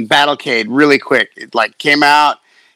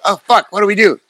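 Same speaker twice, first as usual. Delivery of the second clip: mock panic; 7 semitones higher, faster than usual. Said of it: "we were like".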